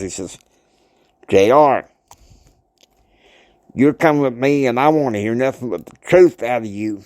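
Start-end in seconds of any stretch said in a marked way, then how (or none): 1.3-7.0 stern father laying down the law; lightly acted growl, firm on the name; mild growled order. Father ordering J R to come along, mild growl. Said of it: "And he growls".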